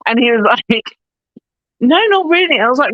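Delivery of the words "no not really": high-pitched imitated denial; retold gentle correction. Director correcting her guess about the character, dismissively.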